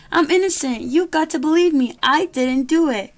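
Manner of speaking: high pleading pig voice; panicked pig. Acted. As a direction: beg for your life as the pig. Pig protesting arrest.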